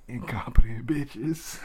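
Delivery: slow, whispery mock contempt; muttered insult. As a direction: hiss it slowly under the breath, imitating a complainer. Acting out the complainer's muttered insult.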